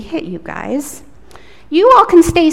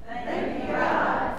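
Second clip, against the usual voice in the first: whispered echo; 12 dB quieter, slower than usual. Real, not acted. Children echo the prayer softly.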